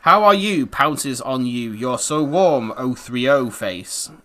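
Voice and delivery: slow, loud cutesy purring; hammed-up baby talk. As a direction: coo it like a smitten pet owner. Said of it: "read these out in a voice".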